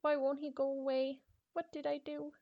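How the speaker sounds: high, loud panicked voice; terrified girl. Acted. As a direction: panic at the intruder by the window. Terrified girl's entry read aloud.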